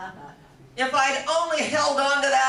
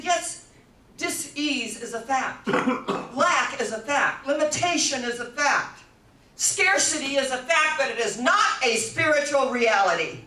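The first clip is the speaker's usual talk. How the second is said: building proclamation; 3 semitones higher, 4 dB louder than usual. Retold or imitated. Quoting Ernest Holmes.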